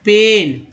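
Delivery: पेन said with a clear e vowel; पेन as a clean pen; careful model word. Shown as a demonstration. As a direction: teach पेन slowly, e not ee. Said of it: "पेन में ई का उच्चारण ए".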